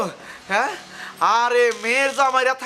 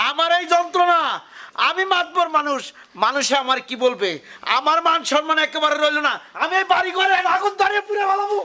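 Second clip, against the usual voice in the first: worked-up rant, rising in pitch; angry ranting; 3 semitones higher than usual. Acted. Humiliated village elder rants to his wife, angry ranting. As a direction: build to a high, heated threat. Husband rants, threatens to burn house.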